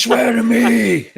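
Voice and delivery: high, very slow throat-straining roar; overdone raspy vigilante shout; Batman. Acted. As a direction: strain it out until the throat hurts. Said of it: "made his throat go a bit sore".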